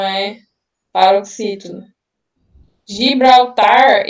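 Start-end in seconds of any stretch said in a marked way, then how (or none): 2.9-4.0 Gibraltar drawn out slowly, leaning on tar; slow, stressed tar. Shown as a demonstration. Tutor reading the exam word aloud: Gibraltar slowly, stress on tar. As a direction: stretch out Gibraltar and punch the tar. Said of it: "a sílaba tônica é o tar".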